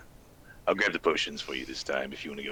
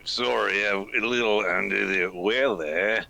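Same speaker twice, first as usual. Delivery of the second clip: sick character voice; 3 semitones higher, much slower than usual. Acted.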